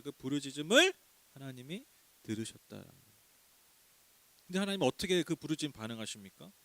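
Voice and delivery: usual speaking voice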